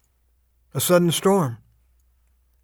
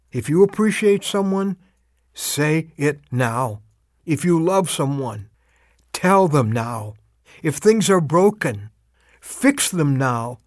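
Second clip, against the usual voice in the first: slow, deliberate preaching cadence, each "now" landing; earnest exhortation; slower than usual. Acted. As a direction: urge the listener, spacing every phrase.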